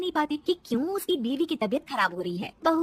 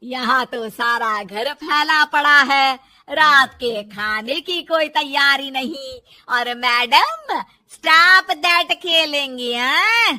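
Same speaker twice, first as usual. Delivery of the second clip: loud, slow, biting telling-off; angry scolding; 9 dB louder, slower than usual. Acted. Mother-in-law scolding daughter-in-law for the messy house, angry. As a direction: drag out each word in contempt.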